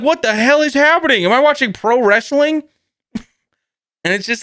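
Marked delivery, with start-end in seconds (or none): 0.0-2.6 incredulous outburst with a laugh behind it; baffled. Retold or imitated. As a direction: react like you can't believe your eyes. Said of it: "And you're like".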